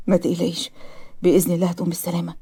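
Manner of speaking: low-pitched, quiet comfort; gentle reassurance. Acted. Patient comforting the nurse during her mother's surgery, gentle. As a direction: soothe softly and calmly.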